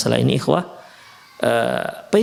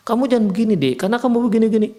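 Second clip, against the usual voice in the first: angry husband; 8 semitones higher, much faster than usual. Acted. Husband scolding wife at dinner.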